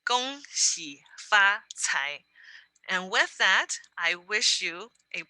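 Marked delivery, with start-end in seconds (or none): 0.1-2.2 slow whispered "Gong xi fa cai", syllable by syllable; whispered demo. Shown as a demonstration. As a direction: whisper it slowly for learners to copy. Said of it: "pronounce it one more time".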